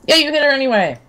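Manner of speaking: excited. Real, not acted. Excited at a lucky hit.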